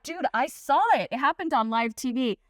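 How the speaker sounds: mock-insisting like a friend who saw it all. D L telling Dennis he saw it, insisting. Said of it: "And D L's like".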